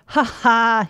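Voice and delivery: loud, put-on "ha ha" roar; roaring laugh. Leprechaun jabbing his friend in the ribs, roaring with mock laughter. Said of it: "he roared".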